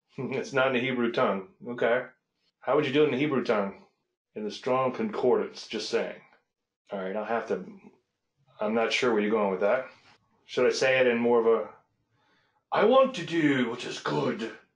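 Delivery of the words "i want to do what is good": slow put-on British accent. Rephrasing a line while discussing Scripture study, in a British accent. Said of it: "I'll sound British".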